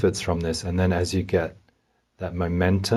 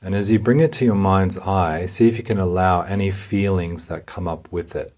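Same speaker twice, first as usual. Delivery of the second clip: calm, unhurried guidance with long pauses; guided meditation. Real, not acted. Meditation guide helps listener notice anxiety in the body, calmly. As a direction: gently lead a listener inward, leaving room to feel.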